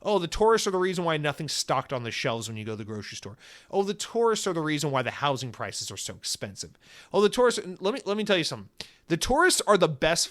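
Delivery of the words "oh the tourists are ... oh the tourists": mock complaining. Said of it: "People complain about the tourists".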